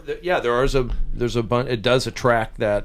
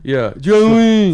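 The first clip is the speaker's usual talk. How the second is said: high, loud mock voice; imitating Al Fox; 11 semitones higher, 8 dB louder than usual. Guest starts mimicking Al Fox talking to Joey, high and loud. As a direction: put on Al Fox's strained voice. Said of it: "He talk weird".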